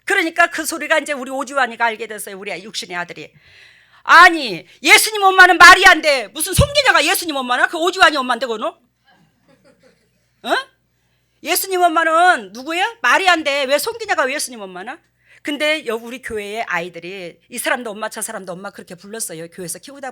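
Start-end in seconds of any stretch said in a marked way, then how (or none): 4.0-15.0 high, loud incredulous complaint; mock son's loud disbelief; indignant protest. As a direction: argue it like a baffled son. Son protesting, voiced.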